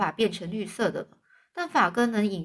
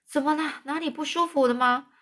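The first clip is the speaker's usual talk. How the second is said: concerned asking; 6 semitones higher, 3 dB louder than usual. Acted. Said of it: "玛丽拉关切地到床边去询问".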